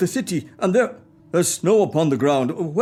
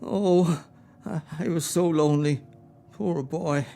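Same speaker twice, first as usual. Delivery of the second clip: sad remembering. Acted. Remembers being a lonely boy.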